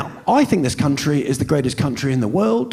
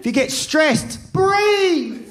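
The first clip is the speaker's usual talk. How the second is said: high mock instruction, falling; breathe, said high and mocking; mock advice; 13 semitones higher, much slower than usual. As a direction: bark the advice like a nagging coach.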